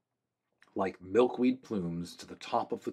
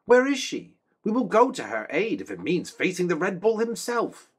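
high, earnest soldier's voice; a loyal guard reporting to his king; young man-at-arms; 9 semitones higher, 5 dB louder than usual. Acted. Fourth man-at-arms, high and loud.

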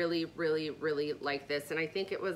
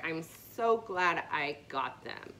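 out of breath; slower than usual. Real, not acted. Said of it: "I am out of breath".

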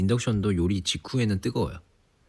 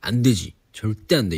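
louder, firm no to the cat; firm scolding; 3 semitones higher, 6 dB louder than usual. Retold or imitated. Retelling scolding her cat away from the induction cooktop, firm and loud. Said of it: "이러면서 내가 막 밀쳐내고".

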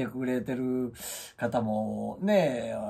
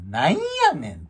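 groggy mock annoyance; 5 semitones higher, 6 dB louder than usual. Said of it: "と".

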